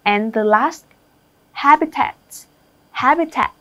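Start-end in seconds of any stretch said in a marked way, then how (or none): 1.5-3.5 "habitat" as HA-bitat; stress on first syllable. Shown as a demonstration. Teacher drilling word stress for the class, HA-bitat. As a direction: lean on the HA of "habitat". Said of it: "âm thứ nhất".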